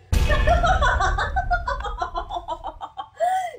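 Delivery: high sinister cackle; evil cackle. Acted. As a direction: cackle like a villain. Villain laugh.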